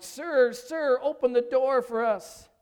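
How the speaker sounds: high, loud appeal from outside; shouting at the door. Acted. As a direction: call to be let in. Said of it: "returned and shouted".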